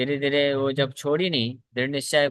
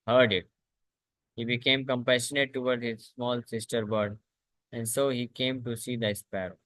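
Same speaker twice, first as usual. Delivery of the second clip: very slow, measured reading of the story; slow scripture reading; much slower than usual. A narrator's reading. Teacher reading a scripture story to the class, slow and measured. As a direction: read each phrase slowly and deliberately to the class.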